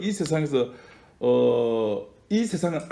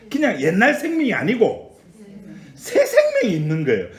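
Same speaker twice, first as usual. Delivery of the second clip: high, loud pulpit delivery; impassioned preacher building in force; forceful preaching; 7 semitones higher, 5 dB louder than usual. Real, not acted. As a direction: proclaim it with urgency to the congregation.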